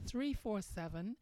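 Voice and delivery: number repeated slowly, digit by digit; host repeating the call-in number slowly; slow dictation. Real, not acted. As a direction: say it slowly so listeners can write it down. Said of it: "That number once again is".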